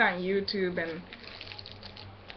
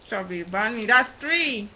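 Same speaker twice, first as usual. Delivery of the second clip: laughing through a stuffed mouth; muffled words around marshmallows; cheeks stuffed full. Real, not acted.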